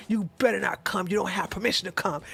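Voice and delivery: soft unvoiced whisper, fast at the end. Retelling a woman's explicit words, whispered. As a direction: breathe the command as a whisper. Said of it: "And I said".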